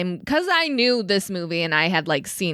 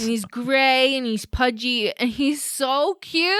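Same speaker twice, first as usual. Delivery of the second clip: cooing; 3 semitones higher, slower than usual. Real, not acted. Gushing over the chunky cat.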